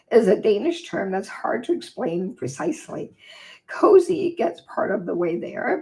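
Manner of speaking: measured reading-aloud voice for a holiday book chapter. Acted. Reading her book chapter to viewers, calm read-aloud voice. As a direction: read it like a cozy chapter to listeners.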